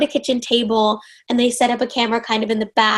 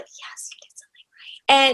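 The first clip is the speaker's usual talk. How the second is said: whispered to herself, pleased; a private little whisper of triumph; hushed self-congratulation, barely voiced; secret inner whisper; 3 semitones higher than usual. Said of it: "I just secretly in my head was like".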